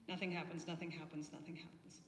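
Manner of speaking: fading to whisper. Acted. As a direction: let it die away into a whisper.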